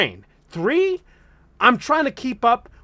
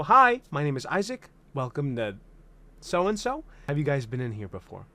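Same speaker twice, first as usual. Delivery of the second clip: server greeting demo; 3 semitones lower than usual. Shown as a demonstration. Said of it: "hit these certain story points in my greeting".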